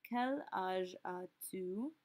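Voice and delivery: slow "Quel âge as-tu?" with "quel" leading; slow model phrase. Shown as a demonstration. Teacher modelling the flipped question for students. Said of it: "ask this in a second way".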